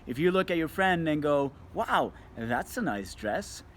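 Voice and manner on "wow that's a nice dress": slow, genuine praise; mean every word of it; complimenting a friend's dress, sincere. Shown as a demonstration. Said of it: "now you've just made her day".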